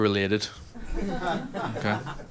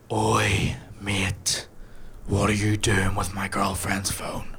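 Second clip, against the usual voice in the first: put-on slow, breathy hushed menace from the boyfriend; hushed gym bro threat; much slower than usual. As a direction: whisper the threat like a looming bodybuilder. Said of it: "all I hear is".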